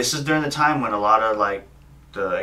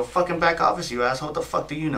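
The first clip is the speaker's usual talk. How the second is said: higher-pitched indignant mock outburst; retold pissed-off retort; 5 semitones higher than usual. Bank worker retelling his comeback to a cop, pissed off. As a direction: retell telling him off, annoyed. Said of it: "I was pissed".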